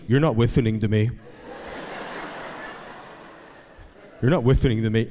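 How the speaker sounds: imitated lisped complaint; lisping four-year-old. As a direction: complain to dad like a lisping little boy. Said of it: "he has a lisp right now".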